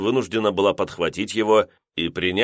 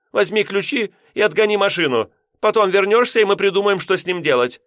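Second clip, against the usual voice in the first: much higher, commanding wife; bossy orders; 12 semitones higher, 4 dB louder than usual. A narrator's reading. Wife commanding husband to move the car, high. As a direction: order him about.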